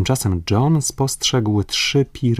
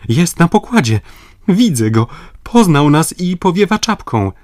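higher and louder, overjoyed; boy pointing out the waving friend; excited shouting; 9 semitones higher, 5 dB louder than usual. Acted. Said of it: "zawołał Robert".

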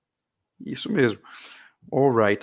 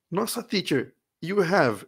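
higher, surprised student voice; mock surprised student; 5 semitones higher, slower than usual. Teacher voicing a puzzled student, lightly surprised.

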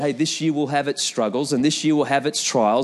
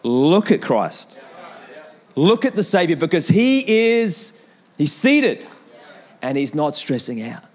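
slow reassuring voice of God; slower than usual. Acted. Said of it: "God is saying".

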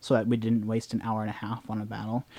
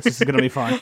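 gleeful anticipation; 12 semitones higher, 6 dB louder, faster than usual. Retold or imitated. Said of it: "I was like".

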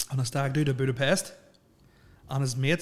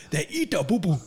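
laughing quote; 5 semitones higher than usual. Retold or imitated. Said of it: "You remember that video?".

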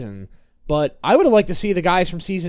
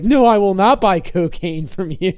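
mock loud refusal; 4 semitones higher, 5 dB louder than usual. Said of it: "be like".

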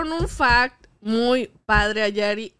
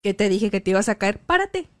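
mock scolding mom. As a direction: nag like a mother who saw it coming. Mom scolding child who fell.

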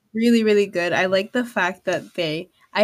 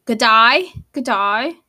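mock Australian; 4 dB louder, slower than usual. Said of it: "Australian, mate".

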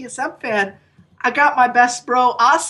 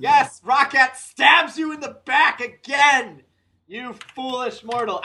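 Jabba voice; 3 semitones higher than usual. Pretend. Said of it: "my best Jabba impersonation".

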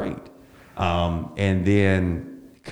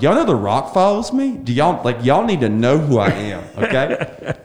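high-pitched excited holler, re-enacted; retold crowd yell; 5 semitones higher, 3 dB louder than usual. Drunkenly thrilled comic to his audience, retold yelling. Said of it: "I'm literally yelling to the crowd".

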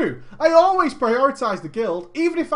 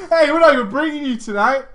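mock guild taunt; 3 semitones higher, 6 dB louder, faster than usual. Voicing guild, fast loud.

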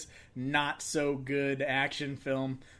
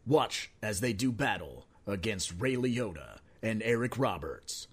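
movie trailer voice. Pretend. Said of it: "get my voice back on".

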